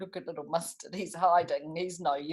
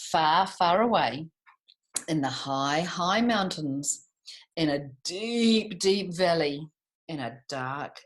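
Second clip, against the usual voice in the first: slow, dramatic storybook telling; storytelling; 4 dB louder, much slower than usual. A narrator's reading. Teacher opens George and the Dragon for the class, dramatic storytelling. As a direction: build the mystery of the dragon's lair.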